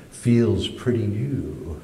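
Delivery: slow, dry cop; slow knowing drawl. Retold or imitated. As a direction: draw it out, suspicious. Imagined cop thinking, slow.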